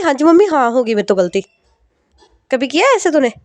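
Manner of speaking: a nagging mother listing faults; scolding mother. Acted.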